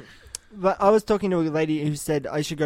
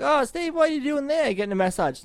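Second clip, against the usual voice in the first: high, bright mock-sweet quote, far higher than his own voice; imitating Amy; 11 semitones higher than usual. Mimicking Amy gushing over his photo, high mock-sweet voice. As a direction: play the excited girlfriend teasing Steve. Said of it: "she's like".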